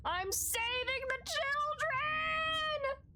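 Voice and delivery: high drawn-out hammed-up heroic shout; heroic cry. Streamer voicing a hero rushing in, hammed-up cry. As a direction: belt it like a cartoon hero.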